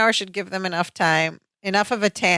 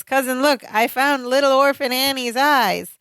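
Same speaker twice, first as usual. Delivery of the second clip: lightly imitated, higher-pitched excited line; a hint of playful character voice, pitched up; Balky; 5 semitones higher than usual. Showing cousin the goggles over his eyes, lightly voiced sitcom character. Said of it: "Balky puts his on over his eyes and he goes".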